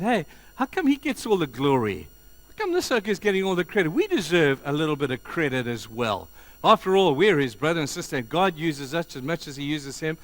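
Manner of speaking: Aaron and Miriam griping about Moses, loud and jealous; jealous complaint. Acted. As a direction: whine about being overlooked.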